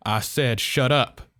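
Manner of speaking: loud commanding shout; forceful shout. A narrator's reading. Father silencing Miss Lewis, forceful shout. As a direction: crush her with godlike force. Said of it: "He spoke again with that godlike force".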